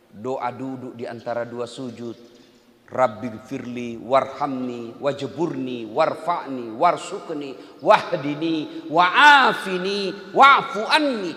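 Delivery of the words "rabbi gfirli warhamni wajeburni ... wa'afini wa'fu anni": slow start then rushing louder; rushed recitation. Shown as a demonstration. Preacher mocking worshippers who rush the prayer. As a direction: gabble the prayer out, building in volume. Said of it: "Coba kalau Bapak baca itu".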